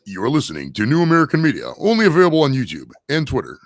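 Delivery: smooth radio announcer read; commercial voice. Shown as a demonstration. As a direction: read it like a station ID. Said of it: "I gotta get in the commercial voice".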